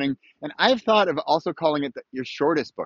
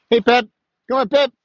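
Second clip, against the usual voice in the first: high, loud call across the yard; high-pitched dog call, loud and bright; 10 semitones higher, 6 dB louder than usual. Real, not acted. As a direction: shout for the dog to come. Calling his dog outdoors.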